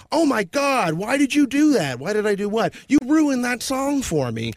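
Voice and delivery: 노래를 망쳤다며 높고 크게 따지는 친구; outraged friend. Retold or imitated. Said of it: "they were like".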